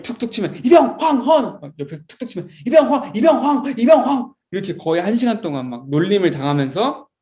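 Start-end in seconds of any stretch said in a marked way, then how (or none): 0.6-1.6 high-pitched recruit calling rank and name; shouted name report. Retold or imitated. Private tapped by a senior, acted high shouted report. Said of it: "계속 선생님 이름을 막 외쳐야". 2.7-4.3 high, rapid-fire repeated recruit call; shouted name report. Retold or imitated. Private teased with repeated taps, acted high shouted report. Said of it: "계속 선생님 이름을 막 외쳐야".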